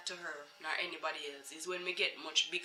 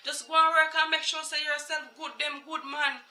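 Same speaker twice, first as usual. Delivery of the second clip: much higher, sing-song dismissive voice; mocking the lady; 9 semitones higher than usual. Lady brushing off the mother, high and sing-song. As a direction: imitate her fake sweetness.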